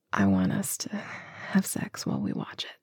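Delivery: soft breathy intimate whisper. Real, not acted. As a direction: let it drop to a whisper. Intimate confession to partner.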